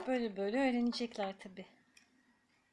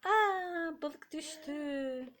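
high bright gasp of Aa; surprised exclaim; 4 semitones higher, much slower than usual. Real, not acted. Surprised baby-talk exclaim.

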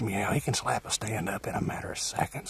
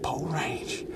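whisper; 4 semitones higher, 3 dB quieter than usual. Real, not acted. Whispered repeat of bow range.

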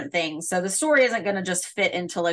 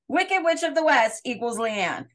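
excited; 6 semitones higher than usual. Retold or imitated. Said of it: "I went and was like".

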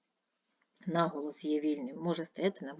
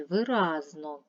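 виразно with the middle syllable -раз- lengthened; stress on second syllable; 4 dB louder, slower than usual. Shown as a demonstration. Teacher sorting words for pupils, second-syllable stress on виразно. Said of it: "другий склад наголошений".

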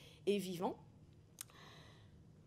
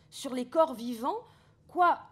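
Alkist outré; 3 semitones higher, 5 dB louder than usual. Acted. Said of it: "Alkist indigné".

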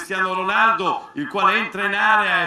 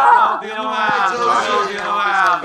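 goal celebration shout. Real, not acted.

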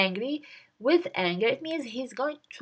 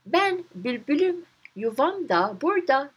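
calm reply; 4 semitones higher than usual. Acted. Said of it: "gayet sakin bir şekilde cevap verir".

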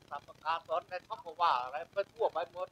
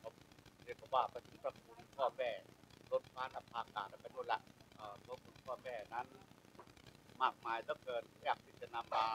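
solemn funeral speech; 4 semitones lower than usual. Shown as a demonstration. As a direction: speak reverently of a mother's grace. Demonstrates his funeral speech. (พิธีกรงานศพ พูดเบาซึ้ง)

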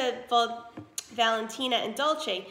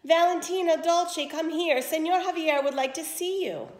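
loud, higher summons; calling daughters; 6 semitones higher, 5 dB louder than usual. Acted. Mother calls her daughters to meet the prince, loud. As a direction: call them down eagerly.

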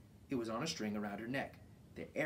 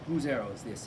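a much louder, stern demand; 8 dB louder than usual. A narrator's reading. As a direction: ask it like a strict leader. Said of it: "he asked sternly".

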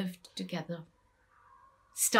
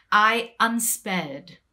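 anguished cry; 3 semitones higher, 8 dB louder, slower than usual. Acted. Dragged into the court.

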